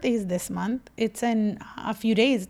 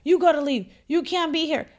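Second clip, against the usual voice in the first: 1 bossy order; 4 semitones higher than usual. Retold or imitated. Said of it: "chasing the one guy out".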